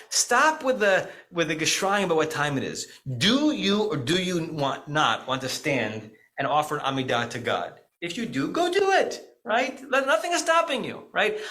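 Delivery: mock Polish accent, amused and dismissive; Rabbi Frankus Polish accent. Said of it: "in his beautiful Polish accent".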